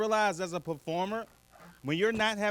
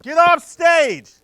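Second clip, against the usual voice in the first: loud, high, slow drawn-out yell; heckler's scream; 8 semitones higher, 12 dB louder, much slower than usual. Acted. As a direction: yell it at a comic who is bombing. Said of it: "Or she didn't scream out".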